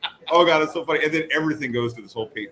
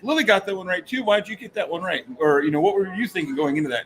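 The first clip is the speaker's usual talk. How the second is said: host voice; 5 semitones higher than usual. Retold or imitated. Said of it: "He's like".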